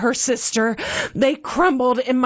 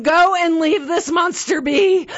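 monster's raw shout, much louder and higher; scream; 5 semitones higher, 4 dB louder than usual. A narrator's reading. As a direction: roar it out to drive her off. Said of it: "I meant to scream".

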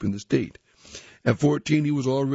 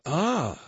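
startled yelp; 6 semitones higher than usual. A narrator's reading. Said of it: "was startled".

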